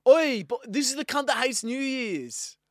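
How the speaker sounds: put-on brash Sydney street kid calling out; aussie eshay slang. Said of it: "I'll be the Eshay".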